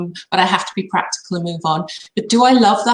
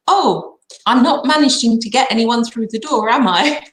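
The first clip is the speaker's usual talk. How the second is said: higher, whiny mimic of a helpless agent; mock whiny complaint; 4 semitones higher, 4 dB louder than usual. Seller mimicking the agent's constant complaint, mock whiny. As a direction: poke fun at her moaning, pitched up. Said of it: "all she kept saying to me was".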